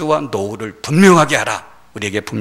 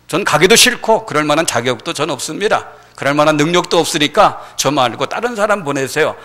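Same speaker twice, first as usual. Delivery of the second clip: firm refusal; 3 semitones higher, 4 dB louder than usual. Acted. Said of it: "아주 분명하게 하나님 앞에 노를".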